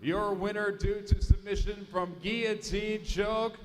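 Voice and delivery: loud ring announcer call. Acted. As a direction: boom the result to the arena. Cage announcer declares result.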